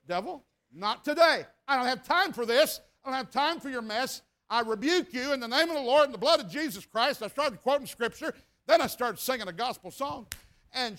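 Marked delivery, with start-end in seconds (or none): 0.1-7.2 firm, raised preaching voice; retold defiant rebuke, a touch louder. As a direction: rebuke it with rising force. Rebuking the devil in retold scene.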